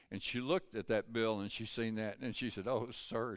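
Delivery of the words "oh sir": quiet retold gratitude; softly moved. Tearful waitress answers the preacher, softly imitated.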